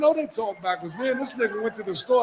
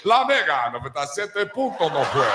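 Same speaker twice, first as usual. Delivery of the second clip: mock radio announcer; 3 semitones lower than usual. Imitating Spanish radio announcer.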